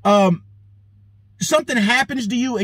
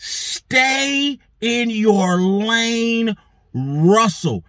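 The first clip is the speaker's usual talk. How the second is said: very drawn-out imitation of a scolding woman; retold snapping; 2 semitones higher, much slower than usual. Imitating a woman checking Russell in public, snapping slowly. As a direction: stretch each word, then drop on the name. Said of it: "I know that this woman snapped".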